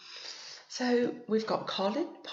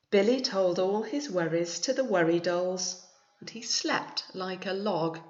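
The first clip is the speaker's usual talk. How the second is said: story narration; 4 dB louder than usual. A narrator's reading. Reads picture book aloud.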